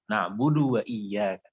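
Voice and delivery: "na'budu wa iyyaka" slowly, "wa" flowing into "iyyaka"; don't stop after "wa" in "na'budu wa iyyaka"; correct joining. Shown as a demonstration. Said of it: "Berdua jadinya". ("na'budu wa iyyaka" pelan, "wa" disambung ke "iyyaka")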